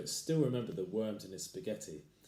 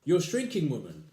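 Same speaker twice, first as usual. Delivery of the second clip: accusing husband; 6 semitones higher, 10 dB louder than usual. Acted.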